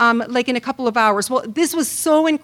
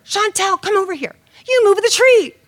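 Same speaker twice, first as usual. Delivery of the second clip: higher, accusing shout; mock angry yelling; 8 semitones higher, 5 dB louder than usual. Husband accusing wife over the tree, higher angry shout. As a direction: hammer the accusation at her. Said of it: "he starts screaming at her".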